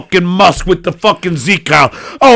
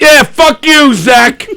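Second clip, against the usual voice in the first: shouting; 5 semitones higher, slower than usual. Real, not acted. Shouts at comedian.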